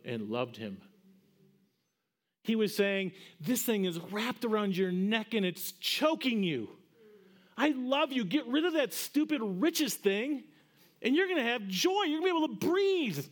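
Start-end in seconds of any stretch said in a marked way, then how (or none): 3.4-13.2 higher, pleading, swelling with urgency; impassioned plea as Jesus. Acted. Preacher voicing Jesus' plea.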